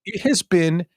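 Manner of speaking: high, slow, syrupy greeting; sugary high welcome to a lapsed member; gushing host voice. Retold or imitated. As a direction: gush like an overeager host. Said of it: "I'm trying to be a host".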